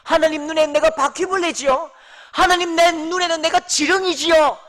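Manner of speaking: loud, high, mounting protest; bitter self-belittling. Acted. Habakkuk belittles himself before God, loud bitter complaint. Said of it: "그렇게 막 자기를 막 비하한다고요".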